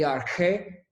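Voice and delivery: arqué said slowly with stress on QUÉ; slow, deliberate arqué, last syllable emphasized; stress on final syllable. Shown as a demonstration. Teacher models the accented word, final stress on arqué. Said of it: "en vez de arque es arqué".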